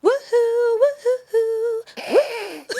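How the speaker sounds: sudden high, loud woohoo to scare; startling boo. Pretend. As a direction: jump in with a shrieking woohoo. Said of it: "Did I scare you?".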